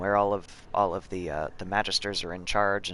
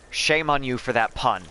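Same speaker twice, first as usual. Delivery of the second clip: mock shame; 3 semitones higher than usual. Real, not acted. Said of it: "Oh, I'm so mad".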